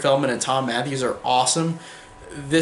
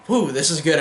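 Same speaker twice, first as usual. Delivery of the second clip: breathless after long talk; puffing between words; out of breath; 3 semitones higher than usual. Real, not acted. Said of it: "I'm out of breath".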